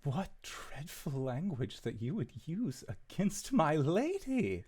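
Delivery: theatrical, affronted reproach; offended captain. Acted. Captain scolding a visitor for insulting his lady, offended. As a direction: rebuke them on your lady's behalf.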